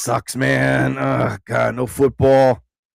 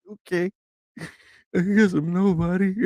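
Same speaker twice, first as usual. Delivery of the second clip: mock dejected; 4 semitones higher, 3 dB quieter than usual. Playing his dejected self.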